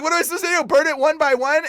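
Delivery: high, loud, rising question; re-enacted exasperated disbelief; retold incredulity. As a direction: push back at an absurd order. Repeats incredulous question to God.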